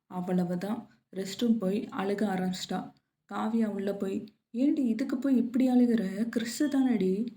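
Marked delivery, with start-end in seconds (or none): 4.5-7.3 higher, lightly exasperated friend; exasperated chiding. Acted. Kavya to Priya crying over a crush, exasperated chiding. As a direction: chide a friend for overreacting.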